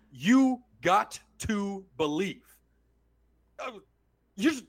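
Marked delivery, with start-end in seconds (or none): 0.1-2.4 "You got to believe" slow, every word separate; spelled-out version. Shown as a demonstration. Mocking the sign's got to, slow and separate. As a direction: pronounce got to as two words. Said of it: "has it written out".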